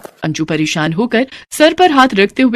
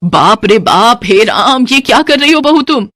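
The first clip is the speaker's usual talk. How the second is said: shocked cry; 4 semitones higher, 3 dB louder than usual. Acted. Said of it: "वो जोर से चिल्ला पड़ती है".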